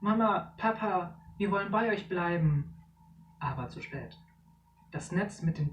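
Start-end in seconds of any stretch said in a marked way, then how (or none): 0.0-2.7 high, louder desperate plea. Acted. Children pulled up in the net, desperate plea. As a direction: beg not to be taken.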